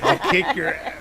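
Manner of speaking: kung fu movie voice. Retold or imitated. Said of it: "reminded me of the Kung Fu movies".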